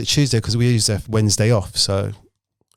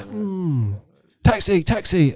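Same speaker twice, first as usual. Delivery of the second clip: Cockney cabbie; 8 semitones higher, much slower than usual. Retold or imitated. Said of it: "it sounded like it was a Cockney".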